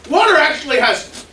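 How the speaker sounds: words round a mouthful of ice; mouth full. Acted. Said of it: "I'm not talking with my mouth full of ice".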